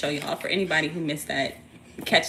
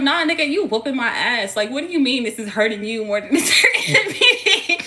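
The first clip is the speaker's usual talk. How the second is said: loud, higher mock protest; indignant comeback; 5 semitones higher, 7 dB louder than usual. Child answering a parent during a whooping, laughing indignation. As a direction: protest in disbelief, breaking into laughter.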